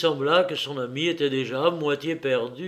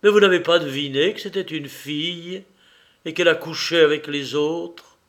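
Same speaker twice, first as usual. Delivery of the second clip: hissing voice; 2 semitones higher, 4 dB louder than usual. Acted. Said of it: "répondit d'une voix sifflante".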